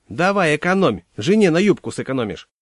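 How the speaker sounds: shouting out the window. Acted. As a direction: fling the jibe after him as the bus leaves. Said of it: "успела крикнуть в окно".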